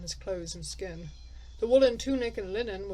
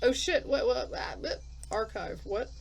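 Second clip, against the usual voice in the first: startled laugh; 2 semitones higher than usual. Real, not acted. Startled by unexpected game text.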